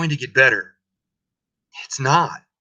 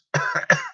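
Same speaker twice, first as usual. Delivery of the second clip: cough. Acted. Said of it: "please pardon my cough".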